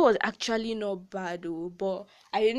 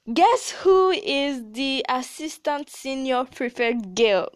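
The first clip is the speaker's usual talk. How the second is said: teasing guess; 4 semitones higher, 4 dB louder, slower than usual. Real, not acted. Teasing the viewers with a reveal.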